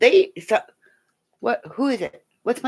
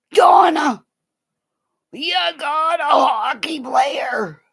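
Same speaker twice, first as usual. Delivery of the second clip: excited call; 3 semitones higher, slower than usual. Real, not acted. Excited reaction to a viewer.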